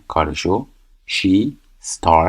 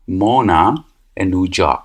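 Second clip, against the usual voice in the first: 1 slow example with a gap; much slower than usual. Shown as a demonstration. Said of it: "چون سوم شخص هستش".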